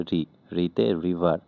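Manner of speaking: রিতে রিভার said slowly, syllable by syllable; slow it down so the learner catches রিতে রিভার; slow repeat. Shown as a demonstration. Teacher repeating the mnemonic slowly for learners.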